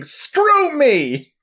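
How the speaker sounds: high, loud retold scream; a bird monster screaming at her enemy mid-fight; mock yell. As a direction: hurl it at him like a furious bird monster. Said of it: "she just starts yelling".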